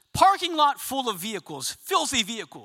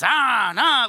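loud stroke noises; effortful "ah, nah"; 2 semitones higher, 6 dB louder than usual. Acted. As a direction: mimic brush strokes with sharp cries. Mimicking painting-the-fence strokes.

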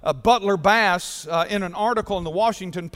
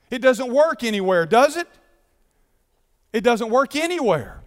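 emphatic preaching; 4 semitones higher, 4 dB louder than usual. Real, not acted. Preacher driving the point.

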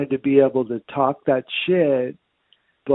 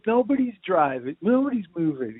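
exasperated outburst; 8 semitones higher than usual. Retold or imitated. Driver yelling at the man who rear-ended him, exasperated. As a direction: vent at the other driver, raised. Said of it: "And I'm like".

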